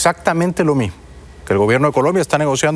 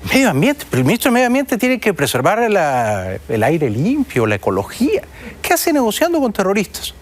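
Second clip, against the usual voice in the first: incredulous; 5 semitones higher than usual. Real, not acted. Incredulous questioning of minister's role.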